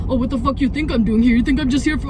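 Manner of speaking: mocking imitation of an aggressive reply; mimicked rude outburst. Shown as a demonstration. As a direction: mimic an indignant stranger going off.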